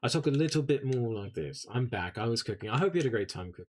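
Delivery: relaxed everyday English accent. Shown as a demonstration. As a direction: loosen the proper English accent a little. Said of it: "I go into this voice".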